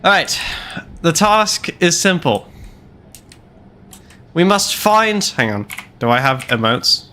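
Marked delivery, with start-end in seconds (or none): 0.0-5.2 lightly voiced, raised commanding tone; a hint of a grand villain briefing; dark lord. Briefing the intern on mission.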